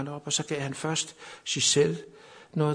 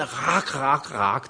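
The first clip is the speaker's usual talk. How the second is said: playful imitation of a raven; joking raven call; much slower than usual. Camp friends joke to each other, playful raven call. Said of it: "sådan lidt spøgende".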